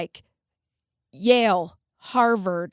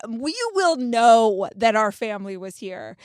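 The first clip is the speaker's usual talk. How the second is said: defiant proud quip; 5 dB louder than usual. Retold or imitated. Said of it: "So I'm like".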